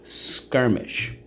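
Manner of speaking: teacher whispers Skirmish back to class; whispered echo. Shown as a demonstration. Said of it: "So let's go".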